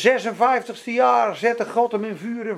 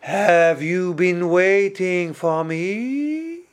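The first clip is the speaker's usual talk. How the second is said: slow, floating, airy delivery; imitating a dreamy, otherworldly preacher; 4 semitones lower, much slower than usual. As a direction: drift through the words as if in a dream. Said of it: "Heel zweverig was ze".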